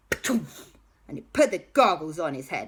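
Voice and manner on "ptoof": short imitated pop on landing; landing noise. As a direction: puff out a cartoon landing thud. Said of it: "And he went".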